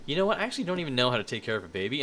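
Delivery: blurting out a panicked confession, fast; retold sudden panic. Left alone with a toddler, he rushes out a panicked admission. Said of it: "I'm like".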